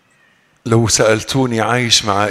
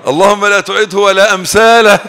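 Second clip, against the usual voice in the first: retold plea; 6 semitones higher, 7 dB louder than usual. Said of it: "قلت لما ربنا أزاح الظالم".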